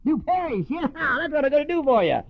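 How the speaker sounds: mock drunk's sugary promises; old schemer. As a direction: sweet-talk her like a practiced con. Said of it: "the old schemer".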